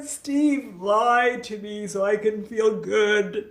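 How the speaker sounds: slow, teasing villain voice; mock evil self. Host coaxing Steve to lie, in playful evil voice. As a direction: lean into a wicked alter ego, drawn out. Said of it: "the evil side came out".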